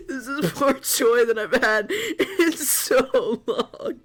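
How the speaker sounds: high, slow, sobbing laugh through words; overjoyed, barely getting it out; crying with laughter. Real, not acted. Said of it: "I'm crying".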